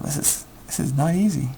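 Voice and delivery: normal talking voice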